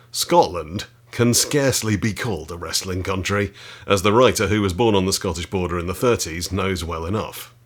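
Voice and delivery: reading aloud. Acted. Reads from a book.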